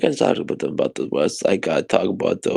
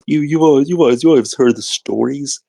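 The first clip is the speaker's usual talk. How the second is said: loud emphatic; 4 semitones higher, 5 dB louder than usual. Real, not acted. Building dramatic speech.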